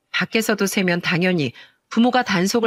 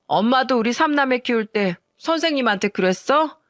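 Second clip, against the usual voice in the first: mock drunk slur; 2 semitones higher than usual. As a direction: play the drunk daughter calling her mom, a touch slurred. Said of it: "혀가 꼬여가며 말하더군요". (살짝 흉내 낸 술 취한 혀 꼬인 말투)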